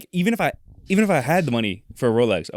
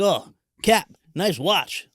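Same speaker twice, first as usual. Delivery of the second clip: put-on kid voice; 7 semitones higher, much slower than usual. Kid voiced asking about watch.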